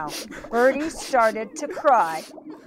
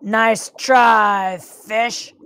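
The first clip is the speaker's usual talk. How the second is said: mildly growly shark voice; a touch of menace, slightly louder; growled shark; 5 dB louder, much slower than usual. Acted. Shark dismisses Birdie's ploy, mild growl. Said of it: "growled the shark".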